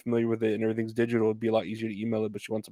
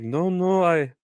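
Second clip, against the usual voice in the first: a lightly raised, insistent customer voice; customer on the phone; 5 semitones higher than usual. Retold or imitated. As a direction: voice the caller as a touch higher and demanding. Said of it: "she's like".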